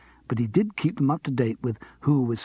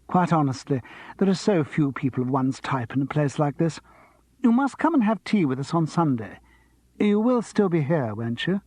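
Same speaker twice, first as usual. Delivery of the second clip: a hint higher gushing hostess; gushing diva; 3 semitones higher than usual. Acted. Vita interrupting her husband, gushing diva. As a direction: gush over the guests.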